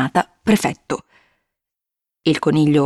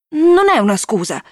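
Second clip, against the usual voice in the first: insisting; 7 semitones higher than usual. A narrator's reading. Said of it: "insistette Jacente".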